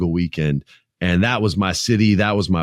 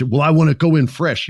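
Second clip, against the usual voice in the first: 1 mock actor excuse; 7 semitones higher, 4 dB louder than usual. Mocking actor who skips source.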